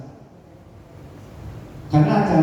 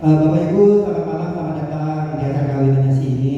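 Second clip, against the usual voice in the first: offhand MC greeting, less measured; casual, unformal intonation; 3 semitones lower than usual. Shown as a demonstration. MC showing guests a wrong wedding welcome, casual intonation. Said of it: "Kalau kita bicara seperti ini".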